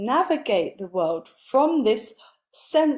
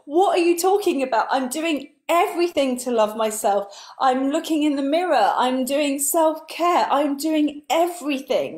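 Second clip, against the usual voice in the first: exasperated protest; 5 semitones higher than usual. Retold or imitated. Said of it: "And I was like".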